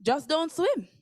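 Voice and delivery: Jamaican mother, flat and final; Jamaican mom. Retold or imitated. Jamaican mom telling her daughter not to swim, flat and final. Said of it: "And she was like".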